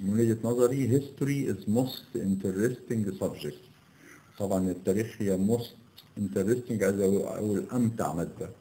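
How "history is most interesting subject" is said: slow error reading. Shown as a demonstration. Teacher reads the wrong sentence aloud slowly to the students. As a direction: read "history is most interesting subject" slowly, word by word, without "the". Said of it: "يبقى مش اسمها the most".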